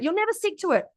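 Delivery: a touch of a sneering inner critic; mean inner critic voice. Retold or imitated. Coach voicing the inner critic to listeners, mildly mocking. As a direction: lightly voice the nagging mean girl in your head. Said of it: "It's like".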